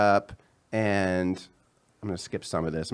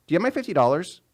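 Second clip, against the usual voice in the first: nagging ex voice; 7 semitones higher, 3 dB louder, faster than usual. Retold or imitated. Ex calling repeatedly.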